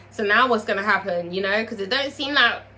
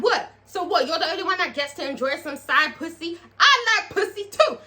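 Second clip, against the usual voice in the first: sassy retort; 6 semitones higher than usual. Retold or imitated. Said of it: "Farrah's like".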